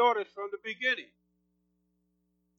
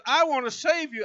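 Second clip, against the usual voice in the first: raised pitch, real excitement; excited preaching; 5 semitones higher, 3 dB louder than usual. Real, not acted. Preacher telling the congregation God will save them, excited. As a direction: let excitement lift the voice. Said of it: "when I get excited, my voice goes up".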